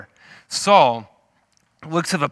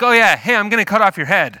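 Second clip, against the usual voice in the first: put-on high, loud teenage bravado; cocky, confident David; 7 semitones higher, 7 dB louder than usual. Punk teenager facing a huge warrior, cocky and loud. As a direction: taunt loudly, brimming with confidence. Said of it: "because he was so confident in God".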